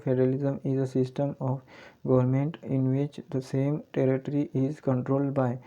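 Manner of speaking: very slow, even reading of the English definition; slow dictation. Shown as a demonstration. Teacher reading a definition to the class, very slowly. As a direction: read it out so students can follow each word. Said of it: "teacher rereads definition aloud".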